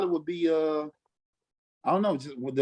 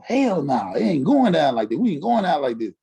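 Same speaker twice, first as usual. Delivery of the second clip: defiant; 4 dB louder than usual. Retold or imitated. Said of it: "we was in there mad".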